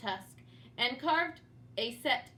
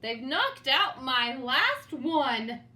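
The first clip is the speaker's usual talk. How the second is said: dismayed; 5 dB louder, slower than usual. Acted. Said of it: "George shrieked".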